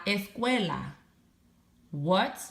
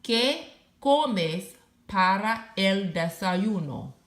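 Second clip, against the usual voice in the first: slow clear question. Shown as a demonstration. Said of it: "Here's a question".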